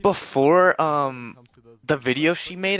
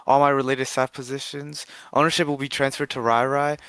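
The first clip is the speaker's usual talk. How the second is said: reading a post aloud. Real, not acted. Reads out an announcement post.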